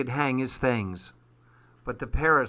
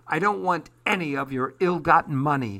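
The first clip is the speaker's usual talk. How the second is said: retorting; 4 semitones higher, faster than usual. Acted. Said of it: "she retorted".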